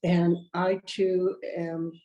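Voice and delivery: talking through a head cold; nose blocked with a cold; stuffy nose. Real, not acted. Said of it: "suffering from a cold".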